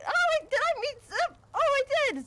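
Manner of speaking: high excited realization; suddenly remember, delighted; surprised. Real, not acted. Surprised recollection, high pitch.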